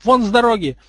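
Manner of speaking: high, loud order to clear the path; urgent shout. A narrator's reading. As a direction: shout to get past someone. Shoving his brother aside to escape.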